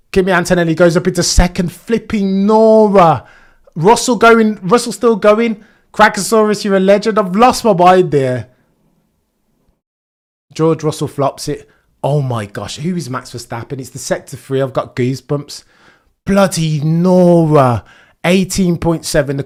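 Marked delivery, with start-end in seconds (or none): 1.7-3.3 stunned exclamation. Real, not acted. Stunned reaction to lap time. 16.2-17.8 stunned exclamation. Real, not acted. Stunned reaction to lap time.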